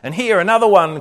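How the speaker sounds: a lightly voiced wail of disgust. A narrator's reading. Corrie pointing out fleas to her sister, lightly wailing. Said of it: "Corrie wailed".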